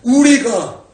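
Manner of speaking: high, loud, drawn-out cry of resolve; impassioned declaration. Acted. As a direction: cry it out slowly at full voice. Acting out Daniel's anguished resolve.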